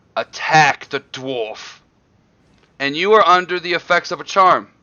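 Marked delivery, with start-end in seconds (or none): 0.1-1.8 draconic creature voice. Voicing a voice that commands a charmed player to attack: draconic voice. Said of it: "you hear the draconic voice in your ears".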